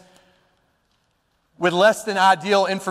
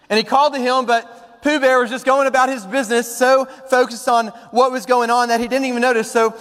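animated storybook reading, pitched up from plain talk; story narration; 5 semitones higher than usual. A narrator's reading. Preacher tells of Piglet calling to Pooh, lively storytelling. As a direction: tell it like a storybook.

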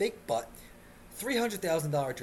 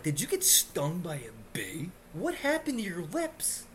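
gawk at her lips in fake amazement; staring at a stranger's lips, mock incredulous; mock disbelief; 3 semitones higher than usual. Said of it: "and I'm like".

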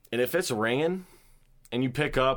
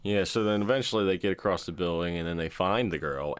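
normal talking voice

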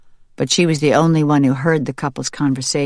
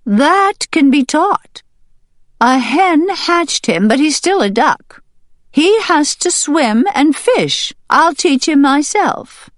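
high, louder, firm duck voice; stubborn duck leader; 12 semitones higher, 4 dB louder than usual. Acted. Duck leader standing firm against the hen, high and firm. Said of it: "didn't back down".

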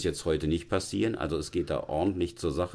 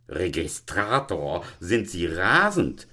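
slow, indignant challenge, mildly acted; understated outrage, drawn out; angry deputy headmaster; slower than usual. Deputy headmaster scolding the registrar, mildly outraged. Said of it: "schrie der erboste Konrektor".

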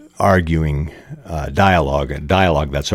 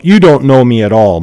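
mild angry retort; 5 semitones higher, 6 dB louder than usual. Acted. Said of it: "Mike said".

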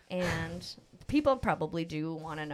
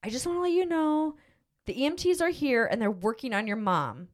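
frantic dad on the phone, voice pitched up; mimicking her father's panic; panicked dad; 6 semitones higher than usual. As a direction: rush it like a scared father calling. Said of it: "he's freaking out".

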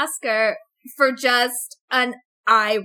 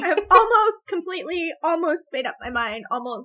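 indecisive dither; 4 semitones higher than usual. Shown as a demonstration. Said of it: "this is what I sound like when trying to decide".

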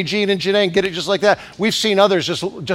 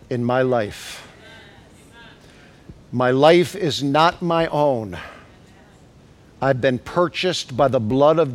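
low, soft, slow prayer; 6 semitones lower, 6 dB quieter, slower than usual. Acted. Preacher praying quietly to Jesus, low and slow. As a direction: murmur it as a surrender to Jesus.

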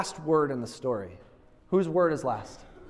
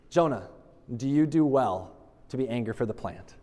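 calm God voice; 6 semitones lower than usual. Retold or imitated. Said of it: "God said to him again here".

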